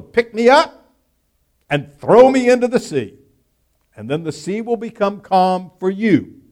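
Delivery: a lightly voiced Jonah begging them to throw him over; Jonah pleading. Jonah confesses to sailors.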